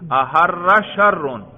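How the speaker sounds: احر شرون read slowly and loudly, each word stressed; slow emphatic reading. Shown as a demonstration. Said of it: "یہ شرون کو بعد میں لے آؤ". (احر شرون آہستہ اور زور سے)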